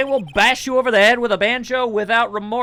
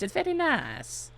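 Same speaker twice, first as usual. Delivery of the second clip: softer, slower murmured take; quiet slower aside; 5 semitones higher, 9 dB quieter, slower than usual. Pretend. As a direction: say it quietly to yourself. Second take, dropped back.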